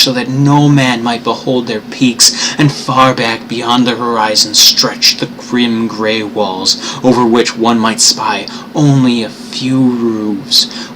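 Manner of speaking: slow, grave reading of the dream city; slow story narration. Acted. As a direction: let each clause hang ominously. Lovecraft reading, slower.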